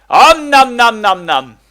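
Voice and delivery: slow loud high chomping noises; nom nom chomping. Pretend. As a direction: gobble it up like a monster. Eating lapis, devouring.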